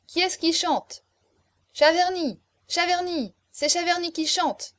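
high, insistent calls; rowdy clamour. A narrator's reading. Guests push the young marquis to sing, rowdy clamour. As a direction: call the name out like a cheering crowd.

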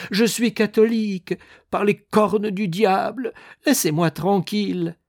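high, loud, exasperated swearing; irate, high-pitched protest; angry outburst. A narrator's reading. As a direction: shout the preacher down. Dying man swears at minister.

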